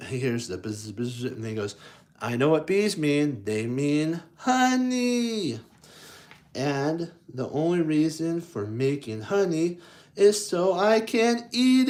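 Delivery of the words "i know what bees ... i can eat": a hint of greedy little bear; lightly voiced Pooh declaring. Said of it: "Pooh declared".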